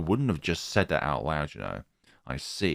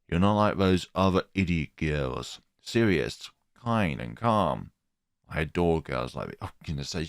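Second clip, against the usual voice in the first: creepy teacher voice. Acted.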